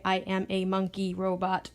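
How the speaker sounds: lightly voiced monkey robot; a hint of a silly monkey robot voice. Shown as a demonstration. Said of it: "the monkey robot".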